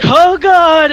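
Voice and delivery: sudden alarmed cry; mock horror. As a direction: gasp out in mock dread. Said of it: "And you all were like".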